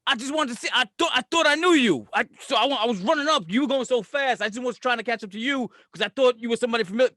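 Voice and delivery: sheepish, tripping over the explanation; meek backpedalling. Acted. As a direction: back down nervously from a scary stranger. Acting backing down from tough guy.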